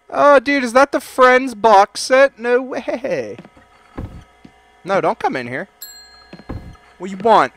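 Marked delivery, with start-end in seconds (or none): 0.1-3.4 higher, loud delight; loud excited gush. Acted. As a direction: gush over the find. Excited spotting box set.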